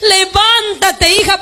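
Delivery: slow, drawn-out call to rise; slow command to rise. Acted. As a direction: stretch it out as the Lord commands. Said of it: "te va a decir". (el Señor ordena levantarse, despacio)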